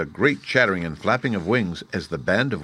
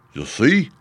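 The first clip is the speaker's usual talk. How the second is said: mild whimper, pitched higher; a touch of a higher-pitched whimper; 5 semitones higher, 3 dB louder than usual. A narrator's reading. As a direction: whimper it a little. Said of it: "with a whimper".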